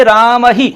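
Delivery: राम ही with the final visarga echoing as ही; visarga sound. Shown as a demonstration. Teacher shows students how the visarga sounds in राम ही. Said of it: "ऐ की ध्वनि आएगी".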